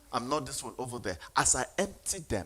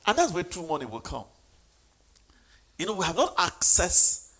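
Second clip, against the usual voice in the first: loud, emphatic preacher's delivery; rallying sermon voice; fervent preaching; 4 semitones higher, 9 dB louder than usual. Real, not acted. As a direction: preach it with rising force, punching key words. Preaches at full force.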